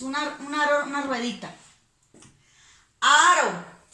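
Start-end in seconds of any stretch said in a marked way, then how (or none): 3.0-3.8 Aro said loud with one soft r tap. Shown as a demonstration. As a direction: call out Aro with a gentle tapped r. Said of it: "Suena muy suave". (Aro con r suave)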